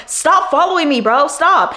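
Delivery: a woman turning on the man chasing her, yelling; retold yell. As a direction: snap at him to stop. Yelling at follower.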